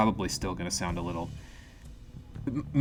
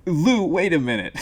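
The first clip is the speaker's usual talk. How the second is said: gruff character voice; 7 semitones higher, 7 dB louder than usual. Acted. Reacting to the book in character.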